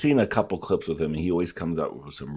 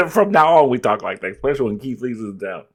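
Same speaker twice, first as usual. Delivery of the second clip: excited mock declaration; 6 semitones higher, 6 dB louder than usual. Playfully adopting the meme talk.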